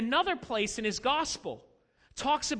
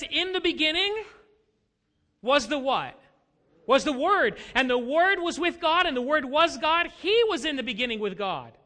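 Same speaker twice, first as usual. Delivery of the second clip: raised, emphatic Bible proclamation; Scripture reading; 4 semitones higher, 5 dB louder than usual. Acted. Pastor reads John's Gospel opening to the congregation, emphatic proclamation. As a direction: ring out each clause with conviction.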